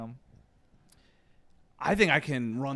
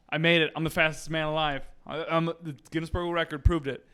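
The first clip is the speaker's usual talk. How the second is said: mildly louder, proud announcement; triumphant; 3 semitones higher, 5 dB louder than usual. Acted. First record hopeful tells the others on the porch, triumphant. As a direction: announce the win with a lift.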